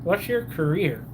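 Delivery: talking with a mouthful; mouth full. Real, not acted. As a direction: speak around a bite of food. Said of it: "Sorry, we're talking to my mouthful".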